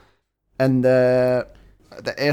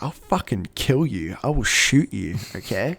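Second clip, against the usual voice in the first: mock-threatening cop; retold police menace at ordinary pitch; crazy aggressive cop. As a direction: threaten him, lightly acted. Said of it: "like, crazy aggressive".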